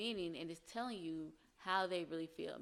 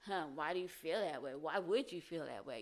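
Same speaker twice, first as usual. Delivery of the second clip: accusing tone. Shown as a demonstration. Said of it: "But to them, they might hear".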